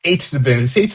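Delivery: talking through a yawn; words stretched by a yawn. Real, not acted. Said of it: "Sorry for the yawn".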